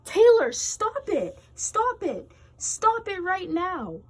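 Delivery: high, loud stern yell; mother yelling. Acted. Mother stopping Taylor's tantrum, angry yell. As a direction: yell stop it like an angry mom. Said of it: "Taylor's mother came in and yelled".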